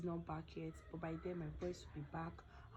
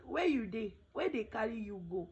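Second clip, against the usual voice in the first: high, loud worried call; colleague calling out; 4 semitones higher, 6 dB louder than usual. Retold or imitated. Colleague on phone demanding where she is, loud worried call. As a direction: shout over the phone to find her. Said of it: "My colleague was like".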